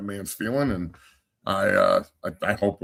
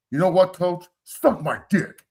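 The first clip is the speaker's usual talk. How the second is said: mock yell, pitched up, slightly louder; retold yell; 7 semitones higher, 3 dB louder than usual. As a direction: imitate a player yelling at his coach. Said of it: "And he yells at me".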